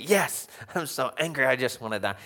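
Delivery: mock angry retort, falling away; Jonah, over the top. Preacher mimicking Jonah answering God about the plant, over the top. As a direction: play up the sulky outburst a little. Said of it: "It's a little over the top".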